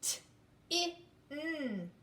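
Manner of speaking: T, I, n each said apart; separate sounds. Shown as a demonstration. Teacher to class, sounding out tin. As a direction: sound out T, I, n slowly. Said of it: "let's do the sounds".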